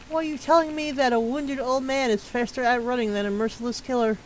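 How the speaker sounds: skeptical pushback, pitch lifted; incredulous character. Acted. Game character scoffing at the detective's theory, mildly incredulous. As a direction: challenge the theory in disbelief.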